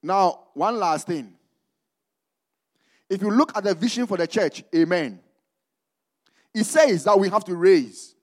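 slow, emphatic preaching. Real, not acted. Preacher introducing one last thing to the church, emphatic preaching. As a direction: stretch the key word and pause for the church.

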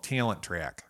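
Toledo accent with "Talent Track" vowels broken into "ee-uh". Shown as a demonstration. Former employee showing locals' name for workplace, Toledo accent. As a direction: say "Talent Track" the Toledo way, "tee-alent tree-ack". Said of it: "the best example that I have".

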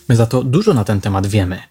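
ordinary delivery, nothing marked

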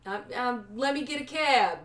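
tentative New York accent; put-on New Yorker accent. Shown as a demonstration. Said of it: "Is that New York?".

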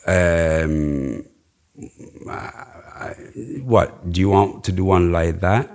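put-on hesitant Spanish-accented English; client's Spanish accent. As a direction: imitate a Spanish-speaking client searching for English words, final consonants cut off. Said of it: "that Spanish accent".

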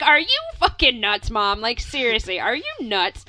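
a half-mock shout of disbelief at mom; retold yell. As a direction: exclaim it like she's lost her mind.

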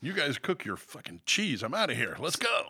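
a light, hammed-up French accent rising at the end. French mother walking out on her family, mock French accent. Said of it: "That was my, my French accent".

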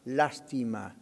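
Lástima with the accent on LÁS; stress on first A. Shown as a demonstration. Pastor demonstrates the accented word, LÁS-tima stressed on the first syllable. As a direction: land on LÁS, let -tima fall away. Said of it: "va con acento en la primera A".

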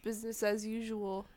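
talking around a pen; words squeezed past a pen in the mouth; pen in teeth. Real, not acted. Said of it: "I could put this pen in my mouth".

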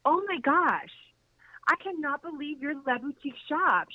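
high, thrilled "oh my gosh" with the pitch jumping up; excited gushing. Retold or imitated. Boutique owner meeting the narrator, gushing in high excitement. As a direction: gush like a starstruck fan.

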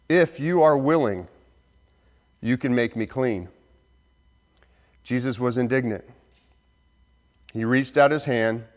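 measured, deliberate Bible reading with quoted lines lifted; scripture reading. Acted. Scripture read aloud to congregation.

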